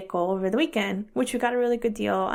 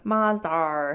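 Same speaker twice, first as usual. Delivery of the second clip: lightly imitated British accent, lower pitch; 4 semitones lower than usual. Joking about how the Brits say it, British accent. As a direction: say Mazdar like a mock Brit. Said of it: "Or as the Brits say".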